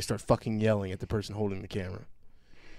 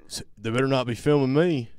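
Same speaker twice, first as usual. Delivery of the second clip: raised, snippy warning; mock indignant manager; 3 semitones higher, 6 dB louder than usual. Retelling the Walmart manager, mock indignant. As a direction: mimic the manager's huffy threat. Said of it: "they're like".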